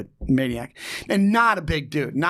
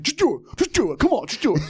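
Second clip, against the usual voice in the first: higher, pushy repeated urging, breaking into a laugh; urgent insisting; 8 semitones higher than usual. Retold or imitated. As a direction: hurry him along, half laughing. Friend insisting on a favor.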